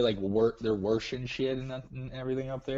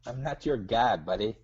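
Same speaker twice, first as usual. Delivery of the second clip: put-on Minnesota accent. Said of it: "Sometimes the accent just comes out".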